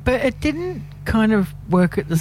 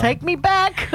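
very high, teasing mock plea; playful plea; 12 semitones higher, slower than usual. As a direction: beg an old crush in a high voice. Playful plea to crush using song title.

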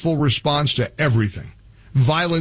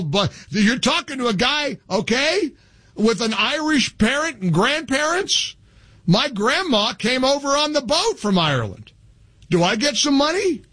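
high, incredulous pitch; 10 semitones higher than usual. Real, not acted. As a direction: pitch up in mock disbelief. Incredulous rant at caller.

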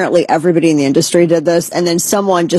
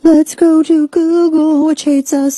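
sarcastic singsong; 10 semitones higher than usual. Acted. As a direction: sing it out with a sneer at Google. Sarcastic aside about Google.

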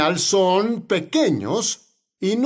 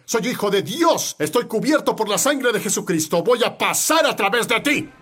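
David's defiance; 2 semitones higher than usual. Acted. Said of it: "haz como David".

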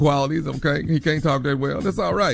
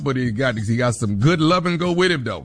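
mumbling Southerner character; 2 semitones lower than usual. Retold or imitated. Host holds the boyfriend character, rushed and slurred. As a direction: rush and swallow the words, laid-back. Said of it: "You're out of breath".

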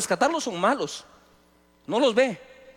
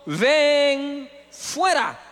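loud cry; 3 semitones higher, much slower than usual. A narrator's reading. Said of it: "clamó a gran voz".

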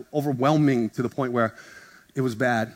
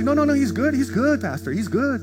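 high, hurried no-no-no, much higher; eager reassuring friend; 11 semitones higher than usual. Retold or imitated. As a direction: rush to reassure the pastor, voice pitched up. Voicing the friend's hurried reply.

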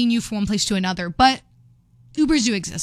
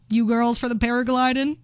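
light imitation Southern accent. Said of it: "he's this Southern accent".

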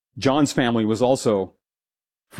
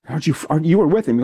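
higher, pressing accusation; accusing question; 5 semitones higher, faster than usual. Retold or imitated. Young lady presses Peter, higher and insistent. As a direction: push Peter to admit it.

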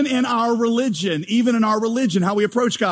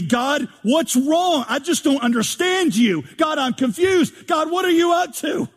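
whining at God, rising to a high indignant yell; mock complaint building to a shout; 5 semitones higher than usual. Believer complaining to God, building from a whine to a high shout. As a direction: start confused and climb to a high frustrated cry. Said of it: "we start saying".

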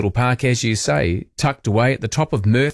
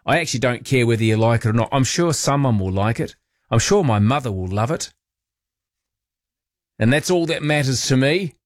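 a touch of defensiveness; defensive. Real, not acted. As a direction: insist mildly, justifying your own choice. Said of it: "sound a bit defensive now".

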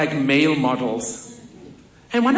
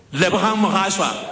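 announcing the winner; 3 semitones higher than usual. Retold or imitated. Announcer calling out the winner, raised and proud. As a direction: call the name like the announcer would.

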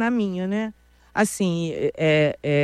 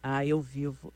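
choro contido; 8 semitones lower, 9 dB quieter, slower than usual. Real, not acted. Fala do luto pelo pai.

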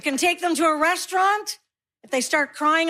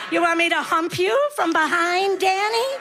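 higher, giggling mock deaf grandma; pretend deaf granny; 7 semitones higher than usual. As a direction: squeal it out laughing like a batty old lady. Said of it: "what I do is I pretend I'm deaf".

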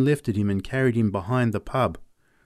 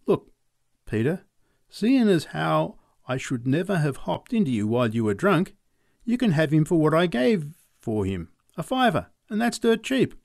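Charlie Robbins; 5 semitones higher than usual. Acted. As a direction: plead your way out of a fight, pitched up. Robbins offers the horse.

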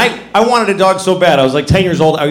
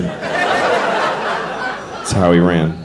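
whispered repeat; 11 semitones lower, 5 dB quieter, much slower than usual. Shown as a demonstration. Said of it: "It's an apt description".

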